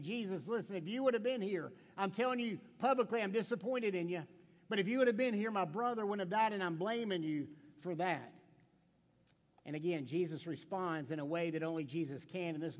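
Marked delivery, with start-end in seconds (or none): 0.0-8.3 mildly acted public reproach, raised and insistent; blaming. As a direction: blame him openly, pressing the accusation. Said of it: "She's blaming him".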